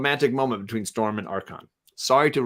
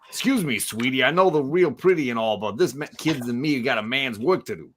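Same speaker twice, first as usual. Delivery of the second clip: lightly voiced New Yorker; a touch of a gruff-talking comic brawler; Thing from the comic. Host reading the Thing's panel aloud, lightly acted New Yorker. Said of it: "first we got Thing saying".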